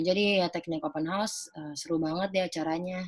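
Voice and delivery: bored, unenthusiastic pitch with no rise and fall; flat monotone demo. Shown as a demonstration. Student demoing a flat promo to a campus audience, monotone. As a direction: read the promo dull and lifeless. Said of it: "Nggak ada intonasi, nggak ada naik turun".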